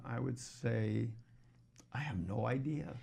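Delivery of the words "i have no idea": whispered confession. Real, not acted. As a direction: breathe it as an aside. Admitting with a whisper.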